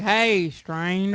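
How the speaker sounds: put-on cowboy accent. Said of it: "Like an actual cowboy, like".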